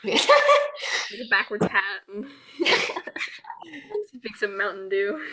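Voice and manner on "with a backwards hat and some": slow, laughing through the words; giggling while picturing a cool dragon. Real, not acted. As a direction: crack up mid-sentence. Joking about cool Crocodile.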